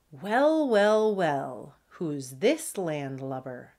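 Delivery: drawn-out mock suspicion, falling in pitch; lightly acted pirate appraisal; sizing up a stranger. Fancy pug sizes up the stranger.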